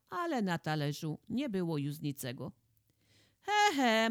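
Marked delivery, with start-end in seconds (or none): 3.4-4.1 a loud, high mocking chuckle; lord's knowing he-he. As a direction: laugh at them as if catching them out. Lord scolds curious couple.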